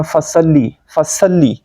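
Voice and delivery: "فصلی" with a light s and flat a; quick, light "فصلی" as with sin; thin seen. Shown as a demonstration. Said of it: "یہ سین سے ہم پڑھ جاتے ہیں".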